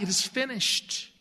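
a touch of a loud cry, then settling; cried out. Retold or imitated. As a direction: call it out from the cross, half-voiced. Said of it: "cried out".

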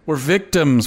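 mock self-pity. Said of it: "and say".

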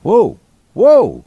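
loud, high gasp of disbelief; stunned, almost knocked back; shocked whoa. Real, not acted. Co-host hearing the monthly drug cost, loud shocked whoa.

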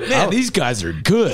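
amused, slow, high, laughing; laughing while speaking. Pretend. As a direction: say it through laughter. Mock fan reaction while laughing.

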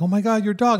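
shocked strangers. Retold or imitated. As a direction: imitate women exclaiming over a dog. Mimics shocked women at flea market.

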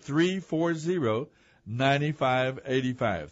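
slow the number down so listeners can write it; slow, spelled-out digits. Shown as a demonstration. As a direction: read each digit slowly and clearly. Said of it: "you can give us a call".

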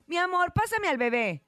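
a hint of a mom asking for the baby; mother asking. Mom asks dad for the baby, lightly voiced.

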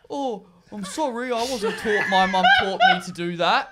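high, whiny, laughing mock excuse; mock the friend's feeble excuses. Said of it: "Nick just has these little".

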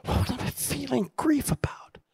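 rising whispered wonder; whispered question. Retold or imitated. Puzzling over his grief, whispered to the audience. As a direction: ask it under your breath.

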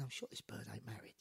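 hushed aside under the breath; whispered thought. Retold or imitated. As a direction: whisper it like a private joke to himself. Private thought during armed confrontation.

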